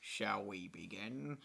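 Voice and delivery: slow low impression; Willem Dafoe voice. Shown as a demonstration. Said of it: "This is the same accent I use for George Lucas and Jared Leto".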